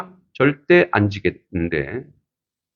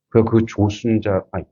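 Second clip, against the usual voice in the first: usual speaking voice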